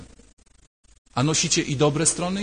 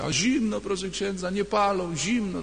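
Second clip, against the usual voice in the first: put-on quoting the old woman; 5 semitones higher than usual. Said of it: "do takiej starszej babci".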